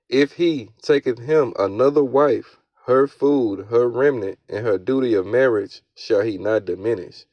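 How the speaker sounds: slow, measured Bible verse reading; scripture reading. Acted. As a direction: read the verse out deliberately, phrase by phrase. Reads scripture aloud.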